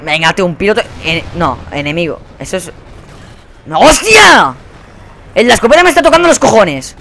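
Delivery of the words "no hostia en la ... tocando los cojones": loud, high furious yell; angry outburst. Real, not acted. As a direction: explode at the shotgun player. Le matan otra vez. (arrebato furioso a gritos)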